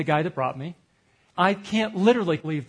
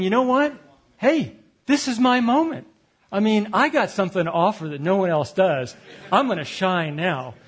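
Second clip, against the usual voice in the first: higher, louder cocky self-talk; proud inner boast; 4 semitones higher, 3 dB louder than usual. Retold or imitated. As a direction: pump yourself up for your big moment.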